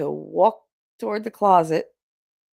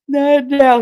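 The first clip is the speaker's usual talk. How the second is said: retold protest; 9 semitones higher, 8 dB louder than usual. Fallen mother protesting son's teasing.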